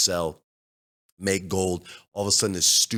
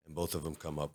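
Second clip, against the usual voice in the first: ordinary talk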